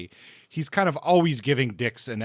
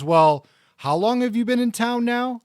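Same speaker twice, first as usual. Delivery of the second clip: high, louder voiced-up questioning; Sylvia's suspicious question; 11 semitones higher, 6 dB louder than usual. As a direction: play the wary hostess pressing him, pitched high. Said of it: "She goes".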